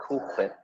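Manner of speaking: "Cool Whip" with "Whip" said as "hhwip"; "Cool Whip" with an exaggerated "hw"; Stewie. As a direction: blow a heavy H into "Whip". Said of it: "makes that same sound".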